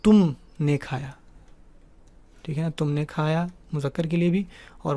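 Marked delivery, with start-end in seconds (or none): 0.0-1.1 slow model sentence. Shown as a demonstration. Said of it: "ایک ہی ہوگا کہ".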